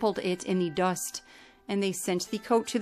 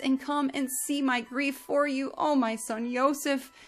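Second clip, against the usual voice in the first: weeping lament; 3 semitones higher than usual. Acted. Yaakov mourning Yosef in sackcloth, weeping lament. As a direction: wail for a lost son. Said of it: "lifted up his voice in weeping".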